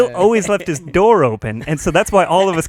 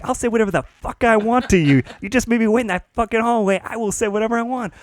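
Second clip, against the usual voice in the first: higher, fast, hammed-up rage; mock furious retort; 5 semitones higher, faster than usual. Applicant yells back at the boss, fast mock fury. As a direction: fire it back quickly. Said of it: "It's like".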